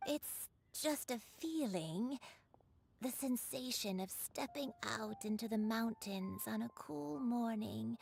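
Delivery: dreamy airy half-whisper; whispery voice. Acted. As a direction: breathe it like a reverie. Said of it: "Why does she talk so strangely?".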